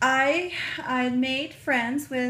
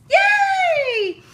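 high, loud yay with a laugh; squealed, laughing yay; laughing cheer; 13 dB louder than usual. Real, not acted. Cheering at handmade goodies.

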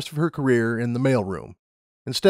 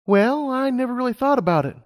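put-on high, eager young mare; Lumina's voice; 13 semitones higher than usual. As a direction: voice her up high, keen and bright-eyed. Lumina chatting.

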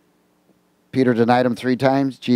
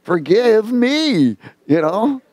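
pleading Peter; 11 semitones higher than usual. Acted. Preacher voicing Peter pleading with Jesus, high. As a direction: beg forgiveness, high and earnest.

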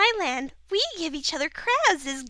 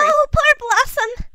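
mock pity; 11 semitones higher, 6 dB louder, slower than usual.

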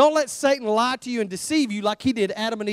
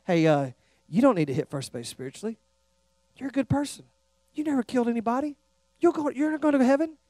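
Satan's voice; 7 dB quieter, faster than usual. Retold or imitated. Preacher voicing Satan's whisper.

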